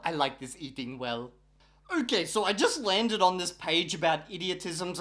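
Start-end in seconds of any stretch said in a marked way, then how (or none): 0.0-1.3 mock diner reply. Answering her own pretend question.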